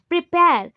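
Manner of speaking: "प्रिपेयर" with प्रि and पेयर both stressed; stress on both syllables. Shown as a demonstration. Teacher showing double stress, punching both parts of "प्रिपेयर". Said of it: "दोनों type में आप ज़्यादा ही focus".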